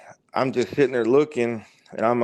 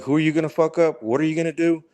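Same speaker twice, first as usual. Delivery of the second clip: mildly angry dog; 5 semitones higher, faster than usual. Retold or imitated. Black Doberman threatens man in his head, mildly angry. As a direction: lightly act a dog daring him. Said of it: "he's really angry".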